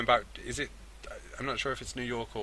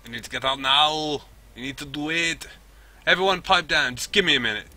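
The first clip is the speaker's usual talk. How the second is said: raised, higher voice under pressure; urgent orders; 6 semitones higher, 7 dB louder than usual. Acted. Telling the team to get out, urgent and loud.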